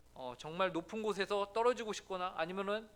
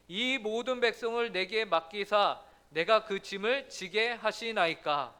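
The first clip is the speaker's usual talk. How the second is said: slow, solemn, louder reading aloud together; congregational scripture reading; 5 dB louder, slower than usual. Shown as a demonstration. Pastor leads the church in reading the verse, slow and solemn. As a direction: read the verse together deliberately.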